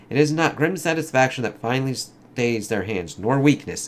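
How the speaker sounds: lightly acted comic dialogue, in character; comic characters voiced. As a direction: read it like a dramatic comic scene. Reads battle scene.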